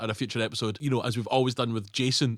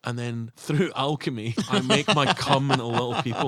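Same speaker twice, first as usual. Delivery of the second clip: mock Pretorius confession; slower than usual. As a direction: confide it like a seedy mad scientist. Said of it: "You know how you".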